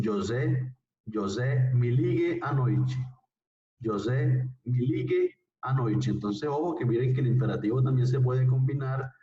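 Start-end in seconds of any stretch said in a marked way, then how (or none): 0.0-2.9 slow, careful Portuguese, noite ending in chi; Portuguese pronunciation. Shown as a demonstration. 3.8-6.1 slow, careful Portuguese, noite ending in chi; Portuguese pronunciation. Shown as a demonstration.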